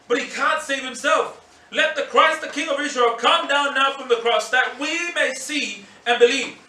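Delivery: mock him as the scornful priests; mocking taunt. Chief priests jeering at the crucified Jesus, mocking.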